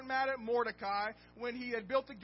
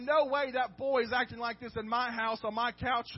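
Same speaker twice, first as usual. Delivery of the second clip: loud, indignant king's outburst, building to a yell; the king can't believe his eyes and lets it rip; outraged king; 9 dB louder than usual. Retold or imitated. Preacher voicing the king, outraged at Haman on the couch, loud indignant outburst. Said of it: "Xerxes basically said".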